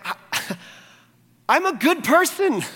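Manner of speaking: high, laughing send-up of a smug churchgoer; mock self-satisfied laugh. Pastor mocks a proud listener with a laughing, high voice.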